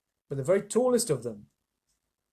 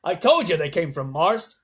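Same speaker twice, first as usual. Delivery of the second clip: told you so; 2 semitones higher, 6 dB louder than usual. Acted. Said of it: "called the chief of police".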